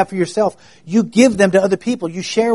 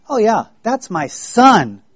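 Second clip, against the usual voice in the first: proud dad; 4 semitones higher, slower than usual. Retold or imitated. Brandon's daddy brags on him.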